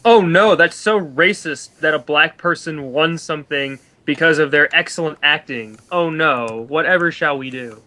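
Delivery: mock the claim with fake worry; sarcastic mock alarm. Sarcastic mock alarm about racism.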